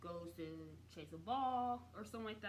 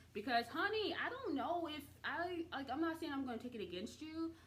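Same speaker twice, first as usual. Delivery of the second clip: sassy; 5 semitones higher than usual. Real, not acted. Imagining betrayal by friend.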